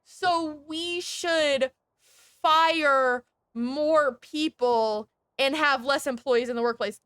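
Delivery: slow, drawn-out sarcastic boss voice; mocking the bosses' logic, dragged out; mock corporate reply. Streamer mocks what companies say, in a slow sarcastic voice. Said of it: "We said".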